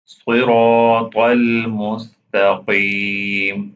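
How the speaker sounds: المستقيم with a heavy, back qaf. Shown as a demonstration. Teacher demonstrating to students, heavy qaf in المستقيم. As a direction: chant صراط strongly, then a heavy ق in المستقيم. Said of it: "This qaf is heavy, pronounce it heavily".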